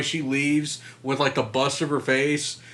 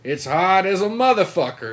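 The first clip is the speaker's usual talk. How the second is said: mock jeweler voice; 6 semitones higher, 6 dB louder than usual. Retelling a jeweler's line.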